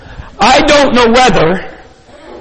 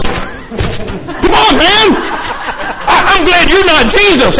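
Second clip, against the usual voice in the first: real laughing protest, pitched up; 6 semitones higher, slower than usual. Real, not acted. Preacher laughing at the volunteer who failed to catch him, laughing protest. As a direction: laugh through the complaint at your partner.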